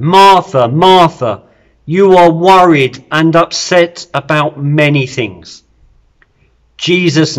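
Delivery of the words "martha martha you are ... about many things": good friend speaking. Acted. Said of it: "this is a good friend speaking".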